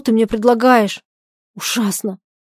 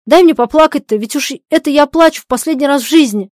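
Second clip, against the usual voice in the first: sobbing; 5 semitones higher, 7 dB louder than usual. Acted. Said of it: "рыдает".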